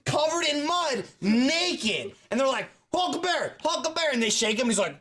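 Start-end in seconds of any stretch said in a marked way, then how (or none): 2.9-4.1 mock calling. Hunters shaking friend awake.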